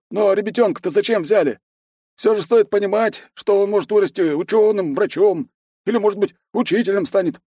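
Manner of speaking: put-on high, earnest headman asking for the boy; pleading village elder. A narrator's reading. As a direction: plead carefully for the child.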